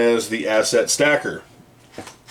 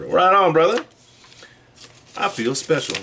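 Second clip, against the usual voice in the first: excited; 8 semitones higher than usual. Real, not acted. Reacts to limited chip.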